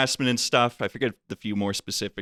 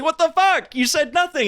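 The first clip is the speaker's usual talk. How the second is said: retold outrage; 4 dB louder than usual. Employee confronts HR about pay.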